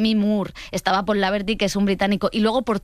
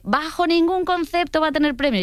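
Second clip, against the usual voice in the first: firm opposing critic; 7 semitones higher than usual. Retold or imitated. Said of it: "hay gente que dice".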